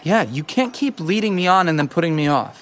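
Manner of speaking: annoyed lover venting; angry accusation. Acted. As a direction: lay into them, fed up with being led on. Lovers' quarrel, he is mad.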